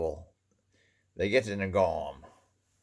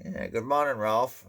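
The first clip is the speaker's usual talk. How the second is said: higher, teasing good morning, a little cheeky; mock sly greeting; 5 semitones higher than usual. Churchgoer teasing a man in an old car, sly mock greeting. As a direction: rib him with a sly grin in the voice. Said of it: "they wanna insult you a little bit".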